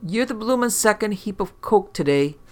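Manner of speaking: high, loud Cockney voice; a brash London technician; cockney tech. Acted. Morgue tech, cockney-ish voice.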